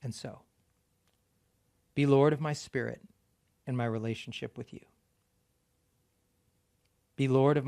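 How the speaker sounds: prayer. Acted. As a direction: pray it aloud to the church, line by line. Leads congregation in prayer reading.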